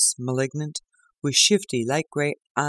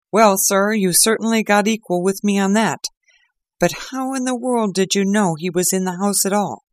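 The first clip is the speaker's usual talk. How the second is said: higher, louder earnest inspector; grateful inspector; 6 semitones higher, 4 dB louder than usual. Acted. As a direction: confide your thanks in earnest. Lestrade asks Holmes.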